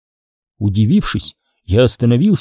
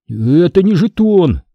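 barely getting it out; 6 semitones higher than usual. A narrator's reading. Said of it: "еле выговорил я".

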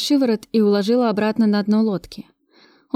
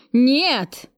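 a higher, lightly voiced yell; mild shout; 5 semitones higher than usual. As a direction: cry out in panic, understated. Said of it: "заорал пленник".

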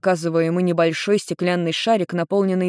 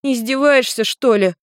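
put-on higher indignant girl's retort; 7 semitones higher, 4 dB louder than usual. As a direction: bristle at the question. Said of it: "возмутилась девушка".

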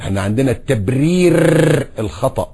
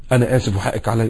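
soft sincere apology to wife; quiet heartfelt apology; gentle apology; 4 semitones lower, 7 dB quieter than usual. Shown as a demonstration. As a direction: say sorry tenderly. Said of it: "لما بغلط في زوجتي".

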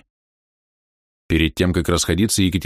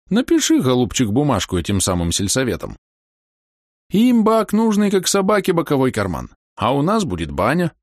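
put-on old man voice; 6 semitones higher than usual. Voicing Kalina Ivanovich.

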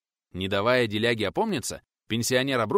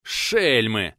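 hateful breath; 6 dB louder than usual. Acted. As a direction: spit it out with hatred, louder. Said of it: "С ненавистью выдохнул он". (с ненавистью выдыхает)

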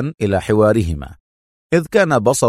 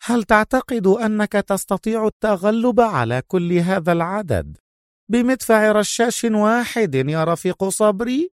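Soviet officer; 10 semitones higher than usual. A narrator's reading. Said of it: "قال محدثا أدهم".

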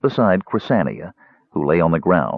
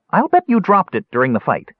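thoughtfully; 11 semitones higher, 3 dB louder than usual. A narrator's reading. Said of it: "he said thoughtfully".

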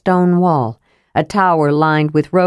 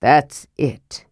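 choked; 4 semitones lower than usual. Acted. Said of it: "his voice was choked".

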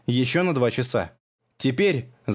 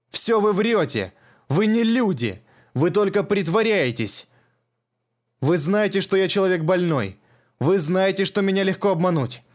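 put-on higher, frantic old man's rant; sick old man accusing the strangers, frantic and higher; old man's raving accusation; 6 semitones higher than usual. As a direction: hurl the accusations, half out of his mind.

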